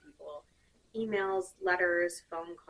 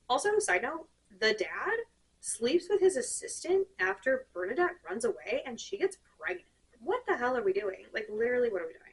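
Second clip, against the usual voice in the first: exasperated rant; 4 semitones higher than usual. Real, not acted. Exasperated rant about the dad.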